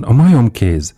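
high, loud narrated cry; loud scream. A narrator's reading. Wife wakes husband with her cry, screaming loudly. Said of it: "sikoltotta hangosan".

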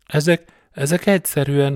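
high, loud stammer, repeating "ezek" in shock; tripping over "ezek, ezek" in disbelief. A narrator's reading. Partner stammering to the sergeant after the bikers fly over, stunned. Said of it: "hebegte a társa".

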